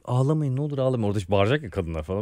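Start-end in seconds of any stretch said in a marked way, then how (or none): 0.1-1.0 soft, gentle comforting plea; calm crying women down softly; a hint of tender reassurance; soothing. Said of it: "Ben de kadınlara şey derim".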